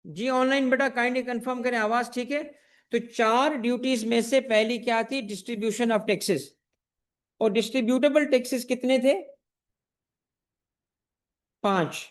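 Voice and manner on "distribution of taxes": very slow, each word drawn out; slow dictation. Shown as a demonstration. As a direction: draw it out for the notebook. Teacher dictating the answer again. (धीमे-धीमे बोलकर लिखवाना)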